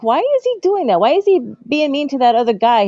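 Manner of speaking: put-on high, puzzled child asking why; indignant little girl. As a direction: sound like a kid upset at the bad guy. Child questioning dad about villain.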